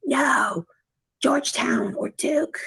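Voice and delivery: retold protest. Telling what they answered Adrian about colleges, retold protest. Retells own reply to Adrian.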